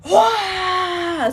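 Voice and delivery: high loud cathartic scream; release scream. Shown as a demonstration. Healer to listener, demonstrating a cathartic release scream. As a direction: let it all out in one scream. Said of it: "and I say, "I am done".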